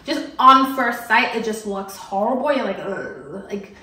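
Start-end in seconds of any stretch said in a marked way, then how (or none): 2.8-3.4 disgusted ugh. Acted. Acts out disgust at bad dupes.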